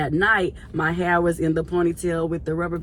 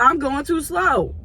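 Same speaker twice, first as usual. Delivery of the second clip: mock indignant quote; 8 semitones higher, slower than usual. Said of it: "she talking about".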